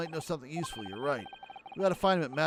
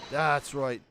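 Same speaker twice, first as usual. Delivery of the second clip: normal talking voice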